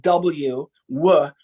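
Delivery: W said with lips still; a lip-free W; ventriloquist W. Shown as a demonstration. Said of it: "how can you make the W sound".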